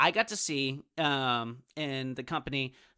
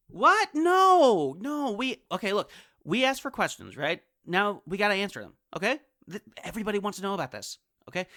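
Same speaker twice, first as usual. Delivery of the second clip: indignant protest; 5 semitones higher than usual. Acted. Pressing reluctant co-host.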